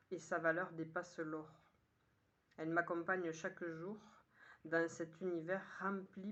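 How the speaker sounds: measured poem reading in short, paused phrases; poem recitation. Acted. Poet sharing today's poem with listeners, measured recitation. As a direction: recite it line by line, lifting the opening.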